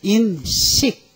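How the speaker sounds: '인식'을 두 음절로 느리게 끊어 읽기; '인식', 인과 식 사이를 띄우기. Shown as a demonstration. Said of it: "이렇게 읽으면 뭐예요?". ('인식'을 한 글자씩 또박또박)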